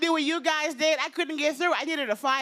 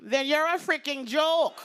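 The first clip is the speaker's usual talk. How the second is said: put-on slow Jamaican-accented verdict; Jamaican mother; slower than usual. Mom dismissing her daughter's career, slow Jamaican accent. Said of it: "her very heavy Jamaican accent".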